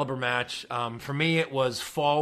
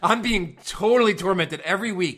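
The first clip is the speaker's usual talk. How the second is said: mock Cena promo; 4 semitones higher, 5 dB louder than usual. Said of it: "grab the mic and go".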